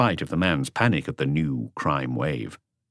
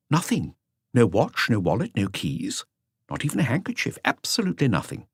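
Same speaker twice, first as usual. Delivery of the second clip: higher voice for the junior officer; voiced officer; 5 semitones higher than usual. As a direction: report it as the other officer.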